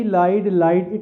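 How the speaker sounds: लाइड said twice, slowly and clearly; slow form drill. Shown as a demonstration. Teacher drills the verb form लाइड, slowly. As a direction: spell out लाइड slowly for the class. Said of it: "अगर verb की form होगी ना लाई".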